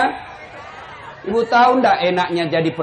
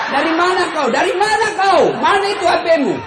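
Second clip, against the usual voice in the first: hammed-up suspicious wife, higher pitched; mock interrogation; 8 semitones higher than usual. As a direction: fire questions like an angry wife. (istri menginterogasi suami, dibuat-buat marah)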